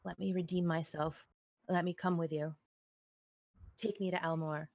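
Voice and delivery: pleading. Acted. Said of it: "looks at him pleadingly and says".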